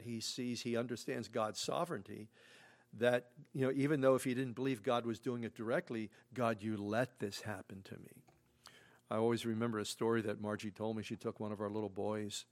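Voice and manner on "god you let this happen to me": whispered complaint. Acted. Job's complaint, voiced in whisper.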